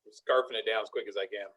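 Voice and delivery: talking through a mouthful; rushed words around a sandwich; wolfing down food. Real, not acted. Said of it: "I'm trying to finish the sandwich real quick".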